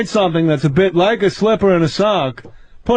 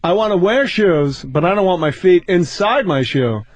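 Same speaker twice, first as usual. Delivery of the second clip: Seinfeld impression; 2 semitones lower than usual. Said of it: "What's the deal?".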